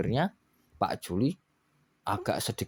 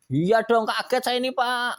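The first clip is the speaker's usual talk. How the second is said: mild startled; 12 semitones higher, 4 dB louder than usual. Acted. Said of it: "katanya gitu".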